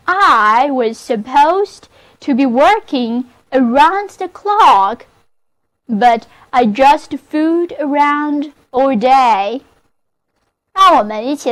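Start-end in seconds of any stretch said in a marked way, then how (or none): 0.1-9.6 repeated model reading. Shown as a demonstration. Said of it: "那么这个句子就是".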